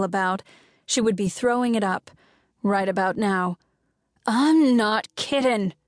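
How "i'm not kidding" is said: slow, mild acted yell. Izzy yelling at her kidnappers, a mild slow yell. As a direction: put some force into it, slowly. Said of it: "she yelled".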